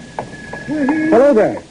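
hailing an unseen stranger; calling out. Acted. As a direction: call it slowly into the night. Calling out on a dark road.

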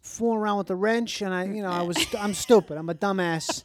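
lightly acted Boston guy making excuses; defensive Boston accent. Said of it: "you said you couldn't do Boston".

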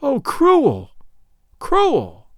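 a lightly voiced high, pleading lament; anguished lament. Fulada begging for her life before the king, mild anguished pleading lament. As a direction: plead for her life in despair, mildly acted. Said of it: "wrung her hands in anguish and cried out aloud".

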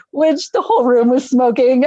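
high-pitched, giggly telling; real amused incredulity; laughing disbelief. Real, not acted. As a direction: barely hold the laugh in at the absurdity. Laughing at absurd smoking arrangement.

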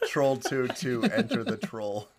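slow, drawn-out trailer announcer; movie trailer voice. Pretend. Mock movie title announcement.

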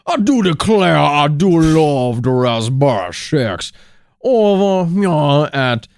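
put-on slow drawling Utah accent; folksy Utah twang. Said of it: "Doing your famous Utah accent".

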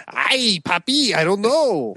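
high, slow, hammed-up fake Latina accent; mock sitcom accent. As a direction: mimic the trailer line's exaggerated accent. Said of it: "she literally says".

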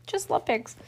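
high, rushed mock thrill; excited. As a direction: imitate giddy excitement, high-pitched and quick. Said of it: "Look how excited she is. She's like".

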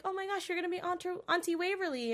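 high, quick excited gush; super happy. Retold or imitated. Wynonna telling her sister she'll be an aunt, super happy. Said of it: "super happy to be like".

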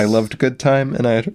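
hiccuping mid-sentence; with hiccups. Real, not acted. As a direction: talk through the hiccups. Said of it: "I got the hiccups".

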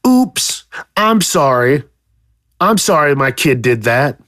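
lightly mocking apology; mock sorry parent. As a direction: mimic a careless parent shrugging it off. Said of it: "What do they always say?".

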